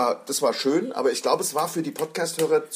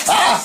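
yelp; 13 semitones higher, 9 dB louder than usual. Real, not acted. After the painful try.

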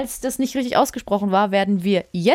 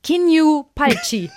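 higher, louder mock climax shout; 5 semitones higher, 3 dB louder, slower than usual. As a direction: shout the foreign cry. Shouting Russian climax cry. (gespielter Lustschrei, laut gerufen)

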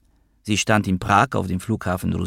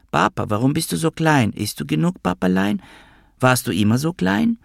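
put-on much higher, piping little girl voice; a small girl, squeaky and tragic; 9 semitones higher than usual. A narrator's reading. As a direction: inner squeaky tragic child's voice. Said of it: "Innere piepsende, tragische Stimme".

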